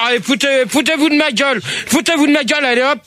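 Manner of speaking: worked-up complaining; indignant. Real, not acted. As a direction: protest at being mocked. Host feels mocked by callers.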